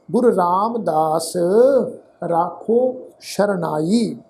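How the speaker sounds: measured Gurbani reading, phrase by phrase; deliberate teaching recitation of sacred verse; scripture recitation. Shown as a demonstration. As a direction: recite with drawn-out vowels and pauses between phrases.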